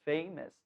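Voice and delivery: "famous" stressed at the start, falling after; teacher's demonstration of "famous", first syllable weighted. Shown as a demonstration. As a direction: lean on "fa" in "famous". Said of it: "a sílaba tônica tá no início".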